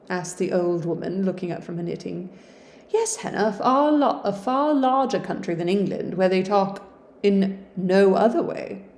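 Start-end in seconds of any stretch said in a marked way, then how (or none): 2.9-8.9 put-on young lady. Sister answers Hannah.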